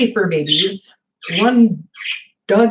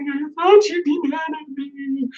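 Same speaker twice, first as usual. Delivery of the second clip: daughter's small voice; 9 semitones higher than usual. Retold or imitated. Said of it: "And she's like".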